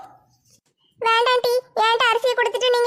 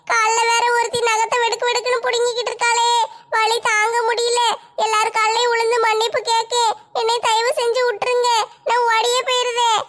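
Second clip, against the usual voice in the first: tearful wailing. Acted. Wailing in pain, crying heard.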